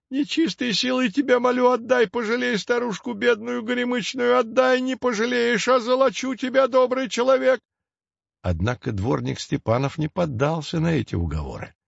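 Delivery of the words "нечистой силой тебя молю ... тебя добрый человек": put-on high, nasal, whining old-witch plea; nasal whining hag. A narrator's reading. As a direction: whine it through the nose like a nasty old crone. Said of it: "ныла она". (гнусавый противный голос старухи)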